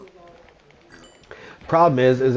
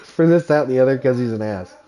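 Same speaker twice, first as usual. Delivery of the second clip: laughing; 4 dB louder than usual. Retold or imitated. Repeats her line while laughing.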